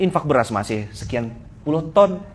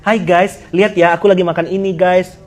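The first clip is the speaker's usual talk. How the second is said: a little higher and louder, chirpy vlogger; mocking people posting their meals, lightly voiced vlogger; mock influencer; 3 semitones higher, 5 dB louder than usual. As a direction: greet the followers like a food vlogger. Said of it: "Kenapa kau posting makan-makan tuh".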